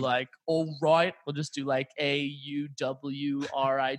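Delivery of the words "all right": mock British "All right"; playful, badly faked British accent; exaggerated British accent. Shown as a demonstration. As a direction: say it as Britishly as possible. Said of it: "as Britishly phonetically as possible".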